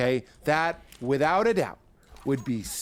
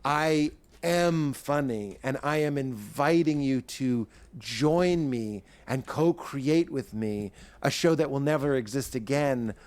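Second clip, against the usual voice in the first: cocky confident voice; slower than usual. Acted. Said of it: "this is the real voice of my confidence".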